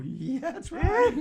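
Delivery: high, slow sarcastic drawl with a laugh; mock sarcastic. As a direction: play along with heavy sarcasm. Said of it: "or go".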